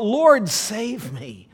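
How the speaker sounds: high, loud, drawn-out plea; crying out. Acted. Peter beginning to sink, crying out to Jesus. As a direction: cry out high and long for rescue. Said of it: "cried out".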